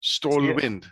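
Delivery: Stålvind copied with a w-like v; Stålvind echoed carefully, w sound for v; repeating a name. Shown as a demonstration. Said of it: "it's Stålvind".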